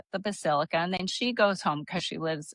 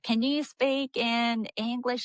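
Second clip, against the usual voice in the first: slow, higher-pitched Southern drawl; mock Southern accent; 5 semitones higher, slower than usual. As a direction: imitate a slow Southern speaker. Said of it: "like, the Carolinas or Georgia".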